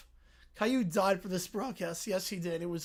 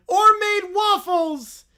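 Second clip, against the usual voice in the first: louder, higher, drawn-out cry; slow outburst; 8 semitones higher, 9 dB louder, slower than usual. Acted. Bear lamenting his breakfast choice. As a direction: wail it dramatically.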